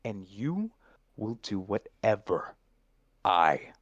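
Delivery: savoring every word of I own you, slow and controlling; possessive villain read. Shown as a demonstration. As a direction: own them like a signed contract. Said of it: "Do it again when you're tasting "I own you." This is a contract".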